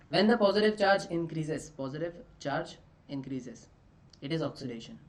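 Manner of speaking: very slow, measured dictation. Real, not acted. Teacher giving students a definition to write down, slow dictation. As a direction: read it out slowly for note-taking. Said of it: "तो इसको लिख लेंगे कैसे".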